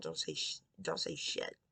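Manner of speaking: a hushed, breathless aside to herself; whispered aside. Real, not acted. Speaking to viewers, she catches her own swear and whispers it. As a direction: whisper the correction under your breath.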